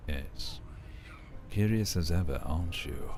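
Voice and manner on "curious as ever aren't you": deep voice. Acted. Trying a deep voice on the curious character. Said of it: "like, a deep, deep voice".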